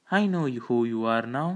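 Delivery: mildly slow, dawning recognition. Acted. Nurse placing her famous visitor, slowly realising. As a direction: let the recognition dawn gradually. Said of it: "said Nurse Philiter slowly".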